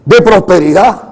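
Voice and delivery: forceful, insistent sermon voice; preaching. Real, not acted. Preacher warns congregation against the prosperity gospel, preaching. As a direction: press the point on the congregation in punchy phrases.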